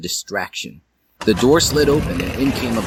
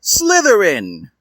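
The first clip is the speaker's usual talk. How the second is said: slow loud announcement; 11 semitones higher, 5 dB louder, slower than usual. Acted. Sorting hat announces.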